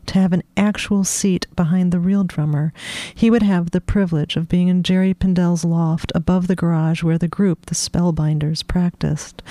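steady read-aloud narration; story reading. A narrator's reading. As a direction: read the passage to an audience. Author reads her novel aloud.

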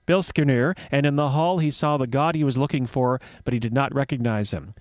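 measured myth storytelling; story narration. Acted. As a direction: read it like a fireside tale.

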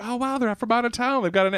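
high-pitched mock amazement; retold wonder. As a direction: marvel at the strangers, self-mockingly. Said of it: "I was like".

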